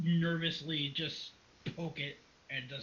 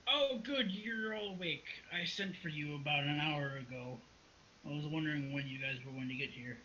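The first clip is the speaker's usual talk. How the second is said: put-on weak old baron voice. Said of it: "in a weak voice".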